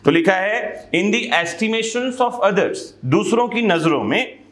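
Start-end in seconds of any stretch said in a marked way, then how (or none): 0.9-2.8 slow, measured legal reading; slow statute reading. Acted. Teacher reading the statute to students slowly. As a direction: read the law out word by word.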